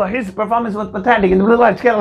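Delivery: very slow, each word laid out; slow demo sentence. Shown as a demonstration. Teacher reading the better sentence to students, slowly. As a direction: read it slowly to learners. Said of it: "अब आप देखो".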